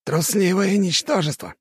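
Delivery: high-pitched sneering insult; contemptuous snort. A narrator's reading. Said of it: "хмыкнул Терёшкин".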